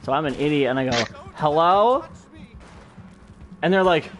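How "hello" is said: loud, high, rising call; wary call-out. Retold or imitated. Retelling walking into a dark bar, wary call-out. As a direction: imitate a nervous call into the dark.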